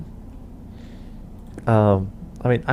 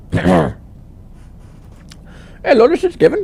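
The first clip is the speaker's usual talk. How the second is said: much higher, louder phone-agent voice; put-on tech support voice; 12 semitones higher, 6 dB louder than usual. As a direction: sweetly greet the caller like a call-centre agent. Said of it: "I actually wanna do voices".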